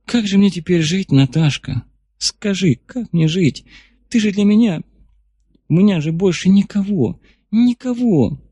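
high, pleading, near tears; plaintive sobbing voice. Acted. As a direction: plead like a hurt child. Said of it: "внезапно всхлипнула. Жалобно, по-детски".

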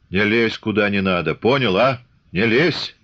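«лезь» pressed hard both times, stern; stern warning. A narrator's reading. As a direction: warn him off, leaning on «лезь». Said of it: "строго повторил Чубатый". (строгое предупреждение, ударение на «лезь»)

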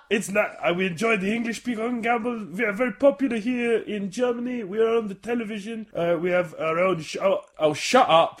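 put-on a light, convincing German accent; subtle German accent. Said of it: "relatively subtle German accent".

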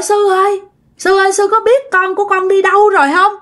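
high, fast tearful begging; crying plea. Acted. Possessed woman crying to the monk about her lost child, high tearful plea. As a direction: beg the monk through tears, pitched high. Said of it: "bà ba bà mới khóc".

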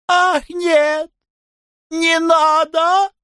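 very high shrieked protest, slow at the end; exclaiming. Acted. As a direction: squeal it out, far above the narrator. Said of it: "воскликнула она". (громкий визгливый возглас)

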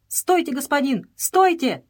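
high, urgent shout to stop; cry of alarm. A narrator's reading. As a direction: call out sharply in alarm, pitch jumping up. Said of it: "Казиль закричал". (тревожный крик, высоко и резко)

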